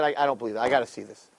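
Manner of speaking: a quiet king who wants proof; doubtful king. Retold or imitated. King doubting the accuser, soft and low.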